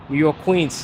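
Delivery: lightly put-on New York accent; hint of a playful New York accent. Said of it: "I said that in a New York accent".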